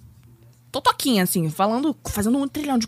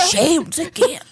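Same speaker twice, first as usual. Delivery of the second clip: higher, louder mock of dad's rant; nervous big man; 7 semitones higher, 4 dB louder than usual. Mimicking nervous dad ranting at the clerk, higher and louder. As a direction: puff up like an anxious giant.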